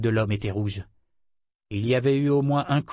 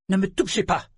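higher, snappish rebuff; snarling; 8 semitones higher than usual. A narrator's reading. Woman recoiling from his touch, snarling. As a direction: spit it out with hostility. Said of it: "siffla-t-elle hargneusement".

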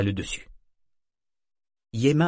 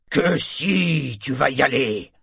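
raised, forceful order; angry insistence; 4 semitones higher, 4 dB louder, slower than usual. Acted. Embarrassed, enraged shipmate orders the boy in, angry. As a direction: overrule him, leaning on the first words.

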